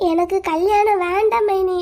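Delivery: slow, drawn-out tearful plea. Acted. Girl begs sister-in-law to stop the wedding, tearful. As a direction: beg slowly through light tears. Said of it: "நீ எதுக்குடா அழுகுற".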